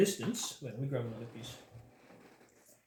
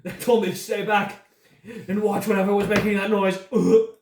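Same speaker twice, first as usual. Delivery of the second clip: higher, louder pained moaning; groaning in pain; 4 semitones higher, 7 dB louder than usual. Acted. Dying man tells the party about the cube, pained moans. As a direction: moan through the agony.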